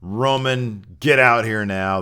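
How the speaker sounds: lightly hammed heel chairman; heel Vince demand. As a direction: call him out like the villain boss. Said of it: "Vince came out full heel".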